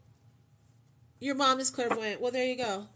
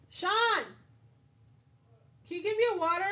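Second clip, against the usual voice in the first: calling out; 8 semitones higher, much faster than usual. Real, not acted. Calls husband in another room.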